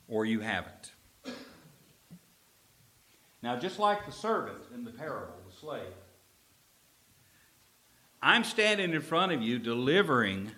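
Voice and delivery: normal talking voice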